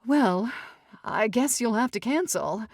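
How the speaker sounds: sighing mother. Acted. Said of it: "sighed Missus Evers".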